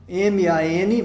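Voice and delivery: M A N, each letter named on its own; spelled letters. Shown as a demonstration. Teacher spelling the syllable man for students, letter by letter. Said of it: "a gente dividiria".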